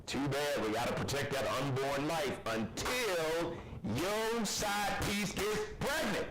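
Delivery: hammed-up absolutist, climbing and stretching at the end; mock anti-abortion politician. Host mimicking hypocritical anti-abortion men, mock moralizing. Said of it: "these same men who are so".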